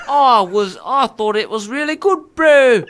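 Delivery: playful put-on Kiwi; mock New Zealand accent. Co-host reviewing the song, mock Kiwi accent. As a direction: play along as a New Zealander. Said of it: "just New Zealand accent".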